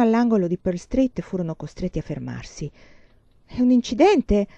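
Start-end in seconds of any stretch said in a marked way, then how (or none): 3.5-4.5 a touch of impatience, pitched up; asking quickly, wanting to get moving; impatient. A narrator's reading. Young woman stuck in a crowd, mildly impatient. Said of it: "chiese lei spazientita".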